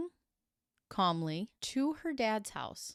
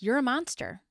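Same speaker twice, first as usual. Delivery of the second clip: loud, hard accusation, pitched up; accusing shout; 5 semitones higher, 5 dB louder than usual. Retold or imitated. FBI agent accusing the suspect, loud and hard. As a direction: hurl it at him like a verdict. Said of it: "The F B I guy is like".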